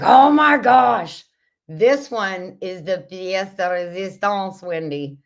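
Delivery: a playful take on Wendy's delight in the jar; imitating a gushing friend. Teasing a jar-loving friend online, mock gushing over it. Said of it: "she's like".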